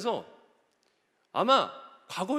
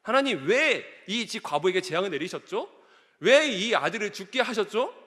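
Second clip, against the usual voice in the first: acted complaint to God, stressing the why; lightly reproachful prayer; mildly resentful; 2 semitones higher, 3 dB louder than usual. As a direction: put a touch of grievance into the questions. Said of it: "약간 원망조였어요".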